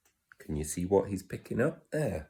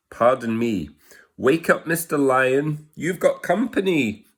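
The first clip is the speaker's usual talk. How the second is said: much higher, louder little mouse; squeaky mouse voice; 7 semitones higher, 5 dB louder than usual. Acted. Tiny mouse politely waking the lion, high and loud. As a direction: squeak up at the sleeping giant.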